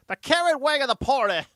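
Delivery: loud, scornful echo of the phrase; mocking repeat.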